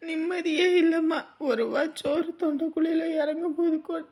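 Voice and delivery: tearful complaint through small sobs. Acted. Daughter telling her mother of her husband's harassment, tearful. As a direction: pour it out to your mother, crying. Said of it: "எதுக்கு அழுதுகிட்டு இருக்கவ".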